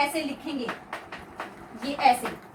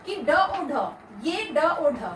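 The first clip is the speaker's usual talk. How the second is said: slow emphasis with a laugh; much slower than usual. Shown as a demonstration. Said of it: "थोड़ा सा अपना concentration यहाँ पर डालिए".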